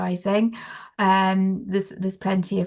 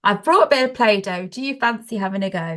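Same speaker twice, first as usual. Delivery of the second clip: lightly upbeat, inviting offer; playful invitation; 3 dB louder, faster than usual. Acted. Adult inviting a child to play with Play-Doh, playful invitation. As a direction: offer it like a fun treat.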